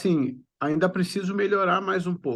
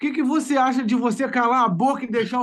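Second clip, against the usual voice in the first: mock subtle; 7 semitones higher, 4 dB louder than usual. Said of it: "de uma forma sutil assim".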